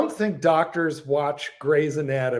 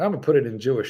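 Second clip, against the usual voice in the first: normal talking voice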